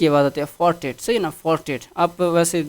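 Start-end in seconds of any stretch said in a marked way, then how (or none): 0.6-1.0 فورٹیٹ said as "far-tet"; pronunciation demo. Shown as a demonstration. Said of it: "اس کا جو pronunciation". 1.3-1.8 فورٹیٹ said as "far-tet"; pronunciation demo. Shown as a demonstration. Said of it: "اس کا جو pronunciation".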